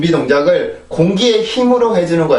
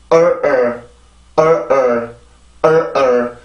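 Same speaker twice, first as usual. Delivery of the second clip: "얼" as an r-coloured schwa, falling, stressed then weaker; word rhythm drill; 4 semitones lower, much slower than usual. Shown as a demonstration. Teacher showing the rhythm of the word without consonants, rhythm drill. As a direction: chant "얼" in separate beats of strong and weak. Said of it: "이게 이 단어가 가지고 있는 리듬입니다".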